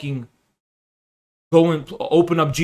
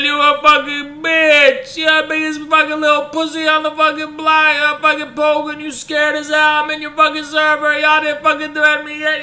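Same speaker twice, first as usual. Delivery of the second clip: high-pitched raging shout; 10 semitones higher, 4 dB louder than usual. Acted. Raging at a chat user.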